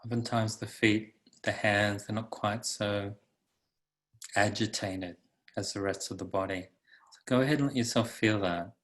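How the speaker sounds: calm, unhurried meditation guide; guided meditation. Acted. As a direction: guide listeners into the body, leaving long pauses.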